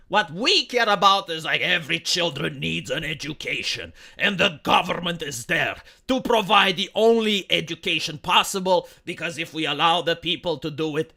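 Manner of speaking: sarcastic government-spokesman parody; mocking bureaucrat. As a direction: play the smug state official, hammed-up. Mock voice of German bureaucracy.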